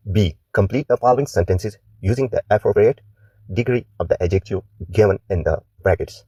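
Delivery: slow, deliberate reading of the task; slow instruction read. Acted. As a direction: read the instructions out clearly, word by word. Reads exercise instructions aloud.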